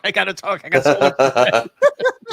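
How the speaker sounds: eager rushed chatter. Retold or imitated. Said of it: "He's like".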